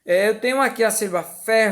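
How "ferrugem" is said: "ferrugem" with RU sung out very long; stress on RU. Shown as a demonstration. Teacher showing an unaccented word's stress, singsong "ferrugem" with long RU. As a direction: lean hard on the middle RU of "ferrugem" and hold it. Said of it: "o ru eu falo mais forte".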